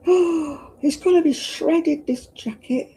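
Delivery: real panic at the damage; alarmed. Real, not acted. Another rip in jacket.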